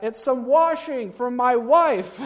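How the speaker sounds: loud, slow shout with a laugh; yelled back laughing. Acted. Sam yells back about his wife's washing, laughing loudly. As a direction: yell the punchline back, laughing. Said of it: "And he yells back".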